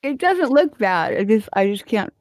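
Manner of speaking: lips too stiff to close for P's; paralyzed lips. Real, not acted. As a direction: talk with numb, frozen lips. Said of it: "my lips are paralyzed".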